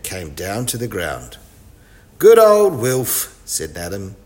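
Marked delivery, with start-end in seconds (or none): 2.2-3.4 cheering. Acted. Praising Wilf after rescue.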